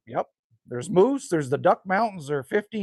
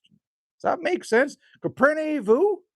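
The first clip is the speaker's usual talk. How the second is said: playful mock French; 11 semitones higher, slower than usual. Playful teasing check to viewer.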